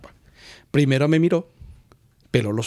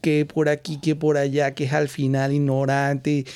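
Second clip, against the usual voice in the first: mock scolding; slower than usual. Retelling Luz scolding him.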